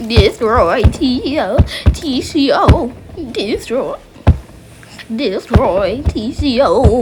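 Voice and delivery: slow, loud, spelled-out command to a voice assistant; loud, slow commanding dictation. Shown as a demonstration. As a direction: dictate each letter slowly and firmly. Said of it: "You can do that with your voice".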